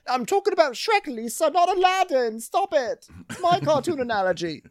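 very high, squealed protest; hammed-up falsetto irritation; mock exasperation. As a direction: imitate a man whining in frustration. James snapping at Lisa, retold.

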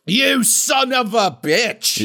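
high, slow, overwrought mock scream. Host imitates the actor's crying scream to cohost, hammed-up. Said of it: "screaming, like, crying".

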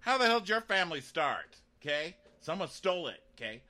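high sneering voice; mock scornful rant. Bronn mocking Jaime's noble family. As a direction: scoff and lecture.

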